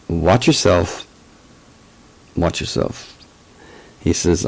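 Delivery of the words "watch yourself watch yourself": slow warning in a mock German accent. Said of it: "with a German accent".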